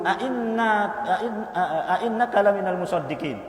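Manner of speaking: lightly voiced scoffer asking with a laugh; mocking friend. Unbelieving friend teasing the believer, mock laughing.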